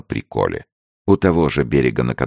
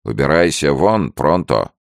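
mildly raised, quoted shout; mock yell; 4 semitones higher, 4 dB louder than usual. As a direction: imitate people ordering you out. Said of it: "И все кричат". (передразнивая крикунов)

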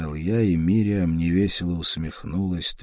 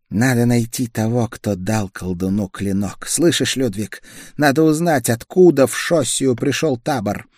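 higher, tense voice of a sick woman; feverish young woman; 6 semitones higher, 4 dB louder than usual. A narrator's reading. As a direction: feverish woman, pushing through chills. Feverish woman magister speaks.

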